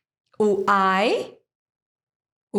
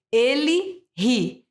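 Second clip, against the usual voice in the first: slow demo; much slower than usual. Shown as a demonstration. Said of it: "o He-Man rindo".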